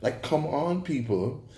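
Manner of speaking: "come on, people" with a rising, pleading tune; exasperated appeal. Real, not acted. Reviewer pleading with the show makers, rising incredulous appeal. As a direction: toss it up as an incredulous challenge. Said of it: "those fake Jamaican accents were".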